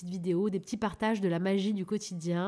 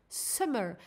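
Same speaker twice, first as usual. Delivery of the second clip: English accent. Shown as a demonstration. Reading the coupon code to listeners in a self-mocking English accent. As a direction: give the promo code SUMMER a shaky English accent. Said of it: "mon accent anglais pourri".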